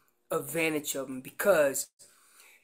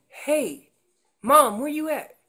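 slightly raised, lightly voiced youngster's call; calf calling Mom; 5 semitones higher, 4 dB louder than usual. Calf checking on Mom nearby, mild raised call. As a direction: check in with Mom, a little high and loud. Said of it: "that's that calf saying".

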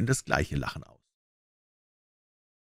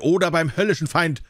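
roaring threat; 7 semitones higher than usual. A narrator's reading. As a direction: bellow the threat. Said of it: "brüllte".

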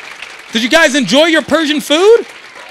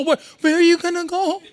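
mock dad; 5 semitones higher than usual. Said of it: "he says it like he's so".

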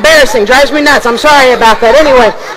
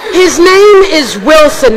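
showman intro; slower than usual. Acted. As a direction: present the puppet like a ringmaster. Ventriloquist introduces puppet.

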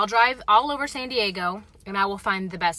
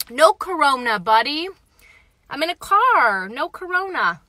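playful outburst; 6 semitones higher, 5 dB louder than usual. Real, not acted.

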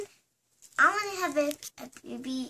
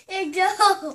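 loud, high little squeal; 5 semitones higher, 8 dB louder than usual. Real, not acted. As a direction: squeal it with glee. Child excited by surprise.

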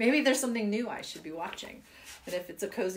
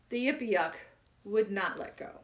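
poem reading. Acted. Reading the Yippee Yuck poem to children, storytelling. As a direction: tell it like a sad old man's tale.

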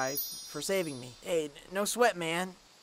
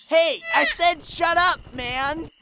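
angry tearful shout; 3 semitones higher, slower than usual. Acted. Yelling at the cockatrice.

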